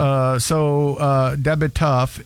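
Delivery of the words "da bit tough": slurred "Da bit tough"; teen's mumbled accent. Retold or imitated. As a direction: say it mumbled like the teen. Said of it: "is that bitch is tough".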